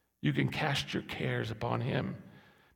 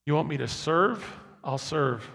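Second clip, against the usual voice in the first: usual speaking voice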